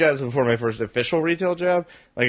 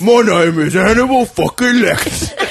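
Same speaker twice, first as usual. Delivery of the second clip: British Hannibal Lecter; 6 semitones higher, 6 dB louder than usual. Retold or imitated. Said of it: "it's more like".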